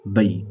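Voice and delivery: بئی with a quick a-i glide; soft diphthong bay. Shown as a demonstration. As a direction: glide short through بئی. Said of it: "حروف لین آ گیا بئی". (حروف لین بئی)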